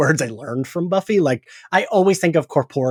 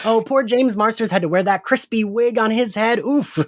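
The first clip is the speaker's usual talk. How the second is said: higher, amused retelling through laughter; laughing Kali Rocha impression; 6 semitones higher than usual. Kali Rocha recalling James Marsters' wig, lightly laughing. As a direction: lightly mimic the actress pitying him. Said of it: "She's like".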